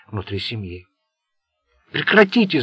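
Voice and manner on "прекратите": loud, higher shout to stop a fight; yelled. A narrator's reading. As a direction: bark the order over the brawl. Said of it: "заорал он".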